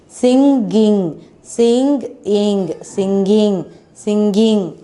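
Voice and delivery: "Singing" said over and over with falling tune; teacher drilling a word; repeated model word. Shown as a demonstration. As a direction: drill "Singing" with a falling end each time. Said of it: "What is the sound of I N G?".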